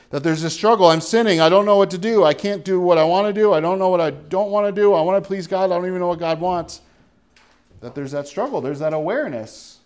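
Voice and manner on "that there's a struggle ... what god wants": loud, higher, pleading cry of a struggling soul; a believer's loud, high despair; anguished believer. Acted.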